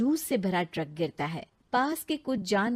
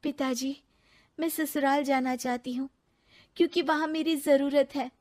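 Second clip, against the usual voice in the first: put-on higher, sincere young woman; earnest young wife; 5 semitones higher than usual. Ritu telling the sage she wants to go back, sincere. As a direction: speak up for the family that shunned her.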